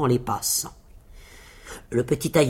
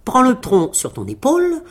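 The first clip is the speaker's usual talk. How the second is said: high-pitched, confident little tailor; petit tailleur assuré; 7 semitones higher, 3 dB louder than usual. A narrator's reading. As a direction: give the giant orders in a high voice. (petit tailleur sûr de lui, voix perchée)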